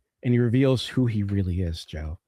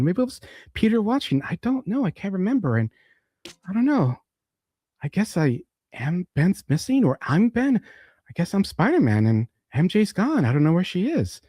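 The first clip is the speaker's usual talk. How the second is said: confused amnesiac; 6 semitones higher than usual. Retold or imitated. Amnesiac Peter rambling confusedly.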